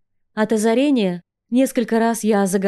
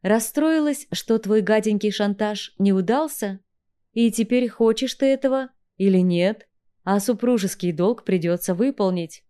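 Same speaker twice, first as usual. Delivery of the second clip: mock sympathy. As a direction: pretend to pity her. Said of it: "картинно сопереживая".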